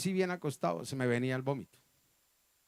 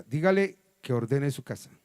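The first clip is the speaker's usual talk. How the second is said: voice of God; 3 semitones lower than usual. Retold or imitated. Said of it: "sentía la voz de Dios que me decía".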